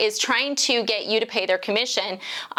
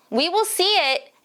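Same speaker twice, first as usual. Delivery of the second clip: We will see it, with will punched and raised high; stress on will; 7 semitones higher than usual. Real, not acted. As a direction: lean hard on will as a warning.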